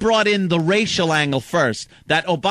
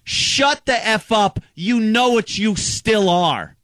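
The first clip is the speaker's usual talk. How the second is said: retold angry yell; 5 semitones higher, slower than usual. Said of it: "I just said".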